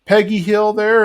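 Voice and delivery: a hint of an elderly caller; old woman voice. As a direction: ask like a frail old lady on the phone. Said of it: "sounds like an old woman".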